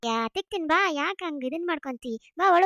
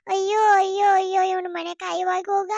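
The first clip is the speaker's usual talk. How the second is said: mock wailing; 5 dB louder than usual. Wife wails at husband's betrayal.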